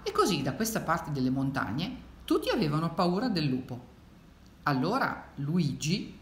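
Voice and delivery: put-on lilting read-aloud to children; expressive storytelling; story narration. A narrator's reading. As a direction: read it like a picture book, with swoops of pitch. Reads the picture book aloud.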